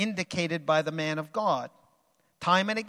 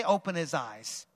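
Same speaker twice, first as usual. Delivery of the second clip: softer, lower repeat for the congregation; quieter prompt; 3 semitones lower, 5 dB quieter than usual. Shown as a demonstration. Preacher prompting the congregation to repeat, softer. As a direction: say it gently back.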